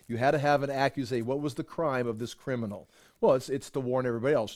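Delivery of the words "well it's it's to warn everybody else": usual speaking voice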